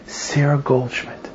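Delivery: slow, soft naming of his mother; retold quiet answer. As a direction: give the name softly, as a statement. Man answers with mother's name.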